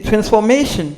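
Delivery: transformation said the English way, ending in -shun; "transformation" with English vowels; English pronunciation. Shown as a demonstration. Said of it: "En anglais, c'est pour dire".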